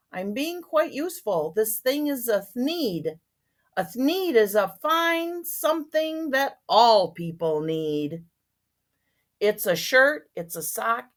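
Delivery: expressive rhyming storybook reading; story narration. A narrator's reading. Once-ler defending his thneed to the Lorax, expressive story reading. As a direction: read the sales pitch aloud with lilt.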